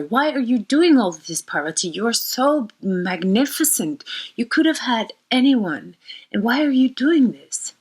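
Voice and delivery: teasing monk. Retold or imitated. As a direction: needle her like a teasing monk. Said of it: "he starts to tease her".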